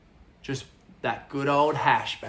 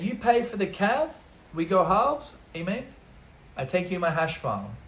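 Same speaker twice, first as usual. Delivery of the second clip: higher-pitched mock Italian accent; Luigi; 4 semitones higher than usual. Italian man offering a farm trip, imitated Italian accent. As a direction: imitate an Italian making a pitch in broken English. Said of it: "Luigi says to me".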